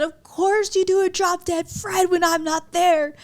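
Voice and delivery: high, loud, drawn-out complaint; mock indignation. Quoting a friend who missed the shoot, loud mock indignation. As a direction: wail it in exaggerated protest. Quoting Monica upset at missing out.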